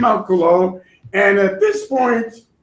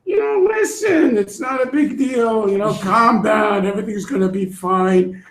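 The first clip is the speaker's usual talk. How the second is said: mock calming. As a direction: soothe the crowd lightly. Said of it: "He says to them".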